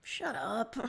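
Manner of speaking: mild grumble. Acted. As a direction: grumble it, face hot. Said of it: "You grumble".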